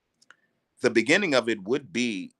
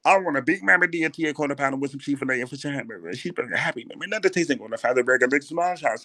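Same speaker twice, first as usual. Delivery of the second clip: fast, rattled-off food order in a put-on voice; heavy girlfriend voice; 3 semitones higher than usual. Girlfriend ordering everything at McDonald's, fast greedy voice. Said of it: "I love doing this voice".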